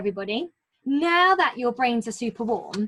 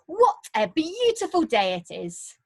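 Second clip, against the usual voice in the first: excited; 5 semitones higher than usual. Shown as a demonstration. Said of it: "an exclamation of some excitement".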